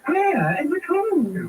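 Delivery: high, slow, drawn-out demand. Acted. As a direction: spell out each word to the servant. Mistress interrogates servant.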